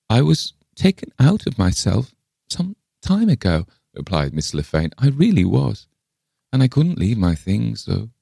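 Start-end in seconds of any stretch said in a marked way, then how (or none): 0.1-3.7 put-on high, halting old voice; reply high and enigmatic, as an old woman; eccentric old lady. A narrator's reading. Le Fane replies. 5.0-8.1 put-on high, earnest old voice; wistful old lady. A narrator's reading. Le Fane insists.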